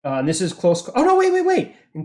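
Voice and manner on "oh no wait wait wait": high quick wait wait; sudden realization. Real, not acted. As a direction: stop yourself, pitch up sharply. GM catches a rules mistake.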